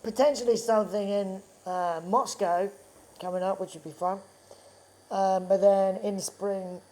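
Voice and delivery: talking through hiccups; hiccuping between words. Real, not acted. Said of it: "sorry, I'm hiccuping".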